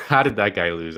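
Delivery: laughing. Real, not acted. Repeated with a laugh.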